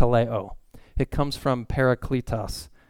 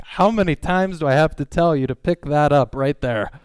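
frustrated nagging; 3 semitones higher, 6 dB louder than usual. Retold or imitated. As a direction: scold the kids in frustration. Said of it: "Leah sometimes is like, gets so frustrated".

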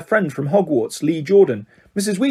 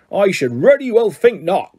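growled; 3 semitones higher than usual. Acted. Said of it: "growled Hagrid".

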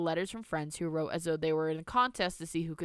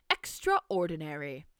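sarcastic; slower than usual. Acted. Grandmother's sarcastic verdict.

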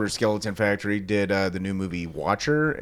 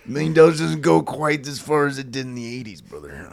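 Macho Man; 3 semitones higher, 4 dB louder than usual. Acted. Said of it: "The Macho Man".

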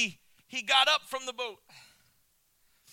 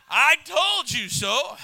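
slow, drawn-out smug told-you-so; a wife rubbing it in gently; wife's told-you-so; 4 semitones higher, 7 dB louder, much slower than usual. Retold or imitated. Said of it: "Usually it's my wife".

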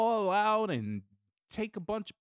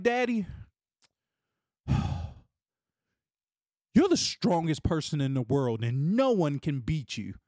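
son's voice; 3 semitones lower than usual. Retold or imitated. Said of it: "he'll call me and just be like".

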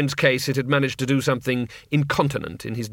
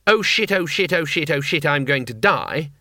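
mock panic; 3 dB louder than usual. Quoting the panicked charade.

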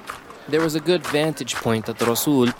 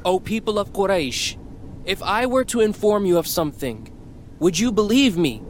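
announcing; 8 semitones higher than usual. A narrator's reading. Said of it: "he announced".

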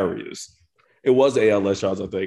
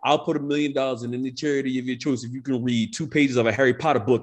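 laughing; 3 semitones higher than usual. Retold or imitated. Laughing through a rapper's dare quote.

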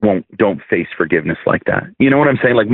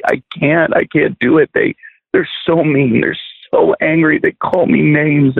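higher pitched, lightly voiced young girl pleading; imitating a distressed girl; 8 semitones higher than usual. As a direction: lift the voice up to the hurting ten-year-old. Retold distressed child at altar.

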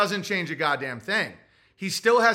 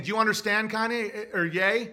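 mock Chris Cuomo; 3 semitones higher than usual. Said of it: "Chris Cuomo kept saying".

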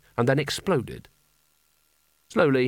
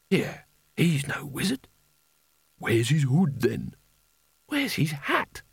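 heckling wizard; slower than usual. A narrator's reading.

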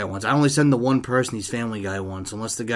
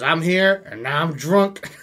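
imitated drunk; 5 semitones higher, 5 dB louder, slower than usual. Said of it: "this guy joins in drunk".

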